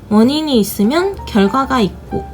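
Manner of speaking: ordinary talk, nothing marked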